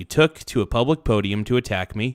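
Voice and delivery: ordinary talk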